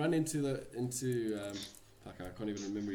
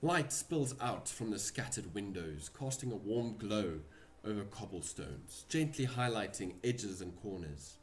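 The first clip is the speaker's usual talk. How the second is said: game master scene setting. Acted. DM narrates the scene.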